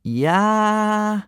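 high shouted war cry; boys' wild war cry; battle yell. A narrator's reading. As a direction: yell it like a charging boy. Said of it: "yelled ten of the boys".

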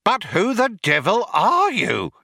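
high-pitched indignant question; outraged exclamation. A narrator's reading. Programmer Fook confronts the intruders, outraged exclamation. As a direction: demand it in outrage. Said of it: "exclaimed an outraged Fook".

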